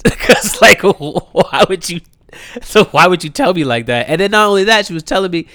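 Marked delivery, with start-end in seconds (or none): 0.0-4.1 real laughter breaking into the words; laughing in disbelief. Real, not acted. Son laughing at how his mom broke the news, laughing. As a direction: laugh through it, high and loud.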